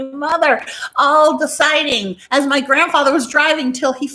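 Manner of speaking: laughing through the words; breaking into laughter. Real, not acted. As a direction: crack up mid-story. Laughing while telling story.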